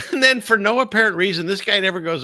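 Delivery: laughing. Real, not acted. Host laughing to his chat as Bannon appears, laughing. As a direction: chuckle your way into the line.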